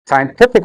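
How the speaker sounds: "scientific" with TIF made prominent; stress on third syllable. Shown as a demonstration. Teacher modelling word stress, "scientific" stressed scien-TIF-ic. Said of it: "The stress is on".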